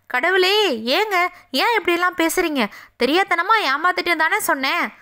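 anguished wife. Acted. Sita anguished at accusation.

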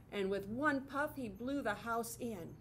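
lively storybook narration; reading to children. A narrator's reading. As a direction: read it brightly to little kids. Reads picture book to children.

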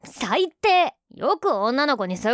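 sharp, high offended cry; indignant shout. Acted. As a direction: yell it, stung and offended. Girlfriend teased about weight. (怒った叫び)

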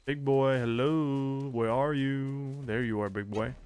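drawn-out singsong calling; teasing call. Pretend. Player hunting for the big boss, teasing call. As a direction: call playfully for a hidden opponent.

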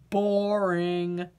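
low, glum potato voice; bored potato. Acted. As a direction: sound like a vegetable with no fun left. Potato dismisses lion tamer.

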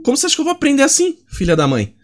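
playfully annoyed rant; mock indignant complaint. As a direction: demand answers in mock fury. Complains at character, fast and loud.

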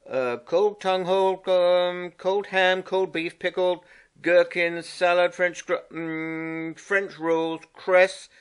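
a lightly voiced, pleased Water Rat reeling off the picnic. Rat reads the lunch menu.

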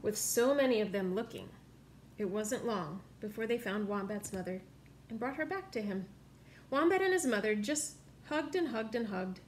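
lively picture-book read-aloud; story narration. A narrator's reading. Reading a picture book to children, lively. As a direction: read the story to little listeners.

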